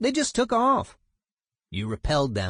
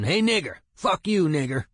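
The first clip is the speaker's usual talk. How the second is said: retold racist shout; 5 semitones higher, 3 dB louder than usual. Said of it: "He was shouting".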